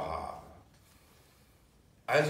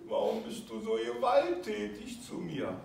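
put-on much higher, whiny child voice; hurt inner child; 8 semitones higher than usual. The inner child complains to the attacker in a high wounded voice. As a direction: plead like a wounded little child. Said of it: "Es sagt einfach".

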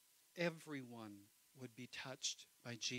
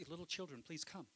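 gentle Jesus; 3 semitones higher than usual. Retold or imitated. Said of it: "Jesus, when he talks".

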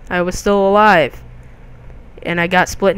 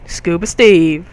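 drawn-out name; 4 dB louder, slower than usual. Pretend. Corrects name in slow voice.

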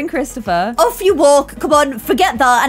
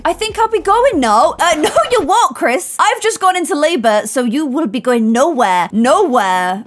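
high excited protest; 4 semitones higher than usual. Real, not acted. Teasing husband, going into labor.

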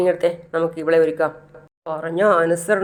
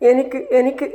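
choked, pitched-up tearful plea; mock sob, higher and strained; crying; 4 semitones higher than usual. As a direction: voice breaking as he admits it. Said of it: "എന്ന് പറഞ്ഞ് കരയാണ്".

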